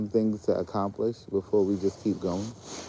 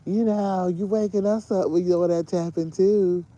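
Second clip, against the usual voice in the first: imitating the family; 9 semitones higher, 4 dB louder, slower than usual. Family complaining about tapping.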